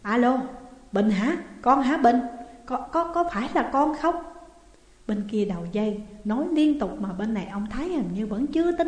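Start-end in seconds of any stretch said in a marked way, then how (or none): 0.0-4.1 anxious excited calling. Acted. Father hears son on phone.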